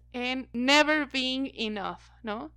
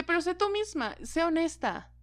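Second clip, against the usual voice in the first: mock a pushy advisor, pitched well up; sing-song high imitation of advice givers; 6 semitones higher than usual. Contradictory advice mocked. (voz aguda burlona imitando consejos)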